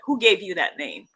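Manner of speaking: put-on firm Igbo-accented correction; bad Igbo teacher accent. Igbo teacher correcting a student, badly imitated accent. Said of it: "for doing a very bad accent".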